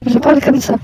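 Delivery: flat machine speech; robot voice. Pretend. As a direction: voice changer robot. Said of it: "si je prends la voix d'un robot".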